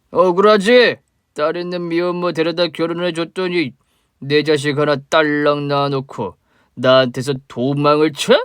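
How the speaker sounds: put-on a sloppy drunk spitting out old grudges; drunk father. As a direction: drunk father accusing the woman he mistakes for his wife. Drunk father confronts ex-wife.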